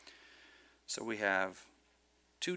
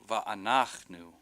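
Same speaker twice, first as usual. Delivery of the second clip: "Va'anachnu" slowly, accent on NACH; stress before last syllable; 4 dB louder, much slower than usual. Shown as a demonstration. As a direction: lean on NACH in "Va'anachnu", not the final nu. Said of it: "with the accent not on the last syllable".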